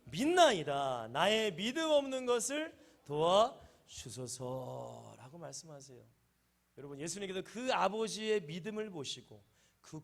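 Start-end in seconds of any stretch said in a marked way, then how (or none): 0.0-5.4 아버지처럼 크게 외치며; crying out. Acted. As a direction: cry it out as the boy's father begging. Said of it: "소리를 질러 이르되".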